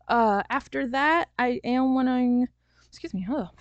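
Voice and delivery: talking through hiccups. Real, not acted. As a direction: hiccups break up the words. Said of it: "I have the hiccups right now".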